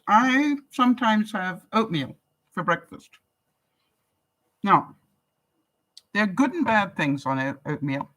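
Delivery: talking with mouth full; words around a mouthful of food. Real, not acted. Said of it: "I'm talking with my mouth full".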